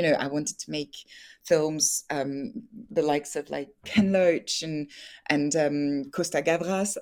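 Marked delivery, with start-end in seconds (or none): 6.1-7.0 Costa Gavras in a light French accent. Shown as a demonstration. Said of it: "I'm just gonna put my French accent here".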